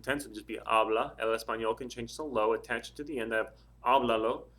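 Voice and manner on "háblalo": "háblalo" said loud, stressed on the first syllable. Shown as a demonstration. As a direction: punch the HÁ in "háblalo". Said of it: "The stress is three syllables or more back".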